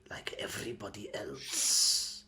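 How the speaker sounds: high, loud creature voice; high-pitched goblin shopkeeper; shrill kobold demand. Acted. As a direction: squeak it out as the greedy kobold.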